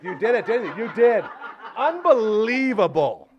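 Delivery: loud laughing cheer at the dog; delighted, laughing disbelief; laughing praise. Real, not acted. Host cheers his dog with a laugh.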